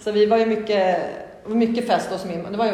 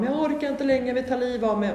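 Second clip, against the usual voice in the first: retold desperate cry; 5 semitones higher than usual. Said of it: "bara skrek till min mamma".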